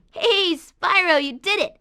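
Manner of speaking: high, loud, slow call of cheer; stretched-out hey, then proud praise; excited praise. Acted. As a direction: cheer him from across the field. Calling out congratulations.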